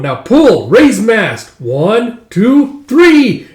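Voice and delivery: loud count climbing in pitch; shouted orders. Acted. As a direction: command the crew, building to the last count. Leader commands crew raising mast.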